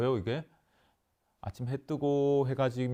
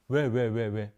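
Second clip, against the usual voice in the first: demanding why; 5 dB louder, slower than usual. Shown as a demonstration. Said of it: "이렇게 묻잖아요".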